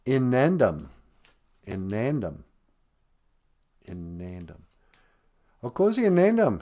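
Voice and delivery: "Inandum" with long nasal n, falling; Ojibwe word. Shown as a demonstration. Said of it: "repeats word to teach".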